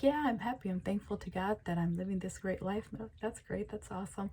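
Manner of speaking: happy gratitude. Acted. Listener voiced thanking God for this life, softly grateful.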